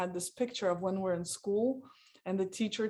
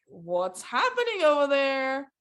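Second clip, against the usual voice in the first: yelled; 6 semitones higher, 6 dB louder, slower than usual. Retold or imitated. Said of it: "yelled into the room".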